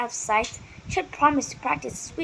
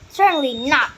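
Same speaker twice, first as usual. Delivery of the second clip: loud, stern refusal; barked; 3 semitones higher, 7 dB louder than usual. A narrator's reading. Fairy Godmother Flint refusing the girl's plea, loud and stern. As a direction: bark the refusal. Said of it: "barked Flint".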